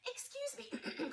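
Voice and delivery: high, slow polite cricket; a small voice clearing its throat. Acted. Cricket interrupting Gerald, tiny polite voice. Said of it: "coughed the cricket".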